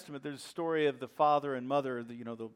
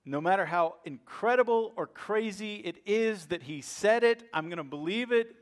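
believing laugh; 4 semitones higher, 4 dB louder than usual. Pretend. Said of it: "One laughter says".

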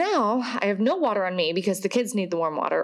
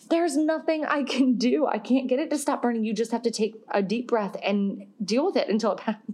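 uncomforting; 3 semitones higher than usual. Retold or imitated. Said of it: "the most uncomforting thing I can".

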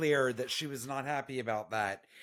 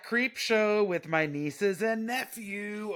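mock scolding; 10 semitones higher, slower than usual.

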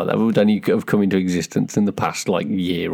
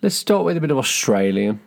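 high-pitched try at Australian; attempted Australian accent; 6 semitones higher than usual. Choosing the first slang round, mock Australian accent. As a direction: launch playfully into an Australian accent.

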